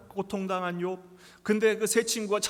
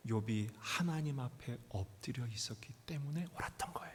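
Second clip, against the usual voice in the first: whispered point; 6 semitones lower, 9 dB quieter than usual. Acted.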